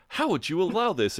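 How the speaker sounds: high-pitched mock outrage at Jeremy; mock yell. The speaker yelling at Jeremy over the bed, mock yell. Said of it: "yelling at Jeremy".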